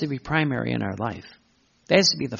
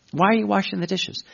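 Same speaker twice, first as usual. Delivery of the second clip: asking voice; 6 semitones higher, faster than usual. Acted. Acted question and answer.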